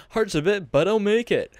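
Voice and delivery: mocking the line, loud and high; mocking echo. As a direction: scoff as you repeat it, loud and high. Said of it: "You just said you".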